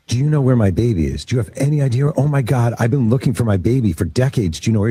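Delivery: urgent pleading, screaming only hinted; retold frantic scream. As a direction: imitate a desperate mother pleading. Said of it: "She starts screaming".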